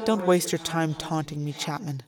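tired, dropping to near silence; weary. Acted. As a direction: let it fade out, exhausted. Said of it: "shook my head wearily".

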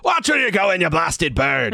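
high bird mimicking someone's scolding; mimicked voice. Talking bird greets Marco with a borrowed voice, high mimicked scolding. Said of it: "in a voice that is not his own".

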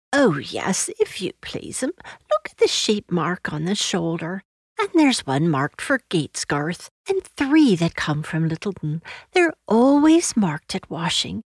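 a hint of a humble country servant; lightly voiced washerwoman. Washerwoman introducing herself to Lucy, lightly rustic and deferential.

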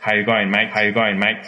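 run-together Australian "How you going, mate?"; Aussie greeting. Retold or imitated. Recalling hostel travellers greeting each other, imitated Aussie accent. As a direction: imitate young Australians' casual slurred greeting. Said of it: "Me acuerdo que se saludaban".

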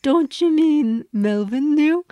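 Scooby. Retold or imitated. Quoting Scooby's callback.

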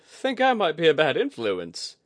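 high, loud, amused; Kudaka, wry. A narrator's reading. Kudaka jokes to Oguri after the race, wry. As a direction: own the mischief with a grin.

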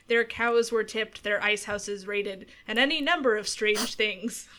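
storyteller narration in a put-on Minnesotan accent, drifting Irish; Minnesotan story voice. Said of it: "story voice, but in a Minnesotan accent".

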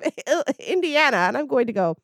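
cheeky villain tornado, fast at the end; voicing the tornado. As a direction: play the tornado mocking her. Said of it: "it was like".

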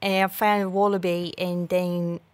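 faltering mock Australian; amateur Australian impression; bad Australian accent. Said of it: "I'm so bad at Australian accent".

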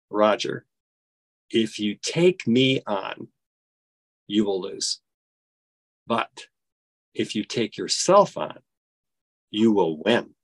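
low, slow words with weighty pauses; retold life-changing counsel, low and measured; solemn sincerity. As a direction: let each phrase land gently and deliberately.

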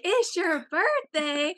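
high, loud, drawn-out cheer; drunken excitement. Retold or imitated. Drunk couple hears it's Patty's birthday, loud overexcited cheer. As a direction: mimic gushing drunk partygoers, stretching the words.

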